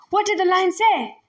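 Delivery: sharp angry question; demanding. Acted. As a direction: demand an answer. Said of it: "the magistrate demanded".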